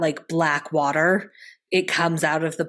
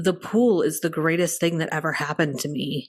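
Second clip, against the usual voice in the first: mock flat deadpan delivery. Retelling what the dad said while the parents argued; retelling a deadpan line. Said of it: "he just deadpans and he goes".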